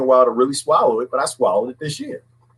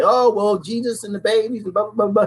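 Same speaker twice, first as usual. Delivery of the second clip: higher-pitched mimicry of pious pleading; put-on higher voice, mock-pious; mocking preachy moralizers; 7 semitones higher than usual. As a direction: parody their line, trailing into dismissive blah-blahs. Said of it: "that's how they get people to say".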